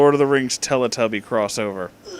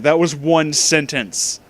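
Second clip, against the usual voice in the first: slower, spelling it out in disbelief; slow, deliberate repeat; slower than usual. Shown as a demonstration. Rereading the fanfic aloud, slowly stressing disbelief. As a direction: drag it out word by word. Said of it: "no, there's a period at the end".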